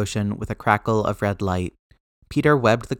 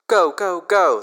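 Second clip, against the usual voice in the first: high, raised-voice urgent command; urgent shout; 8 semitones higher, 5 dB louder, slower than usual. A narrator's reading. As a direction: shout orders over the comms. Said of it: "Steve was shouting in the comms".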